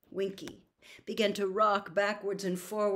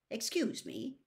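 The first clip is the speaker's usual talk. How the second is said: incredulous; 4 semitones higher, 5 dB quieter than usual. A narrator's reading. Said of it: "said Mister Diggory incredulously".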